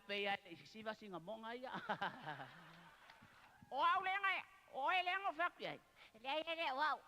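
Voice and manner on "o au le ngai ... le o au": excited high call. Real, not acted. Repeats high playful line.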